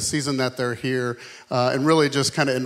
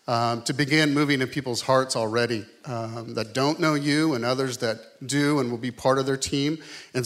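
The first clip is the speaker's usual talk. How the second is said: calm, steady pastoral prayer. Real, not acted. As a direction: pray sincerely for the families being sent. Pastor prays for planters.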